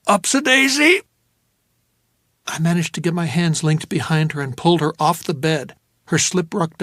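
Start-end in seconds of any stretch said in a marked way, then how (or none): 0.1-1.0 high, sing-song heave; mock jolly lifting cry; forced cheer. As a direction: chirp it while lifting. Hauling her up.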